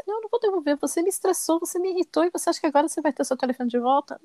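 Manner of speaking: high-pitched, indignant retelling of a scolding; retold firm refusal. Mother retelling how she refused to return her son's phone, indignant. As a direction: replay telling off a child, pitched well up.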